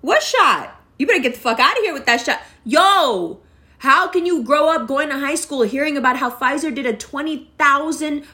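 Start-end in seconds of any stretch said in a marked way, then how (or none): 0.0-2.4 mocking forties dismissal. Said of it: "they're like".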